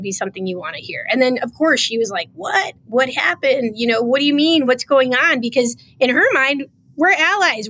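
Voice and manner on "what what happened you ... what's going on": mock-innocent confusion; playing dumb. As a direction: mimic her acting clueless. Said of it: "She totally played dumb".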